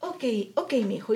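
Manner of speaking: soft, subdued okay; retold backing off. Mother-in-law backing off from her upset son, softly. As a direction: give in quietly, voicing someone else.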